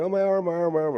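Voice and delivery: high, loud whiny wail imitating a crying kid; mock crying. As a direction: replay the childhood crying over the arm, half-hammed. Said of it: "And so I'm crying".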